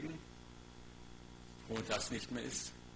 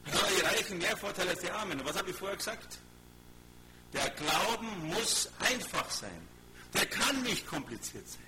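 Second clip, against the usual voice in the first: emphatic, raised preacher's voice; insistent sermon delivery, pitched up; forceful preaching; 6 semitones higher, 4 dB louder than usual. Real, not acted. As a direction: drive the point home to the congregation. Preacher drives home a point.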